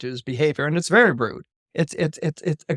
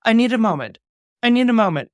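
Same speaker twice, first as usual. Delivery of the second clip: overwhelmed sister; 6 semitones higher, 5 dB louder, faster than usual. Retold or imitated. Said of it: "And she's like".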